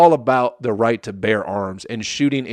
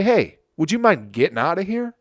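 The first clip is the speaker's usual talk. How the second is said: keeping cool; 7 semitones higher than usual. Acted. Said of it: "Keep cool and say".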